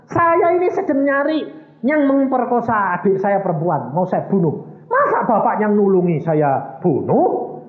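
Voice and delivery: high, mock tearful plea; imitated weeping man. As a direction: wail out the confession, acted. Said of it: "Ini orang kepalanya nangis".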